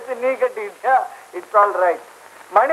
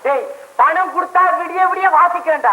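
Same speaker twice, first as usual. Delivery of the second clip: higher, boisterous call back; raised-voice reply; 5 semitones higher than usual. Acted. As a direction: shout back eagerly. Musician answers the call.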